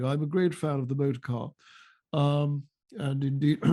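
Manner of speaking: lightly voiced Rees-Mogg; Jacob Rees-Mogg impression. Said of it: "Jacob Rees-Mogg".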